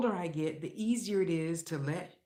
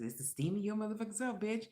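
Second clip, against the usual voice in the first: quoting Cat Williams; 4 semitones higher, much faster than usual. Retold or imitated. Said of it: "Cat Williams says this".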